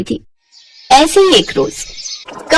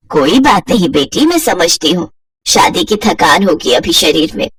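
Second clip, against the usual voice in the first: put-on lower, gentle older woman; reassuring mother-in-law; 5 semitones lower than usual. Kamla reassures her daughter-in-law, gentle lower voice. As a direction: soothe the bride lightly.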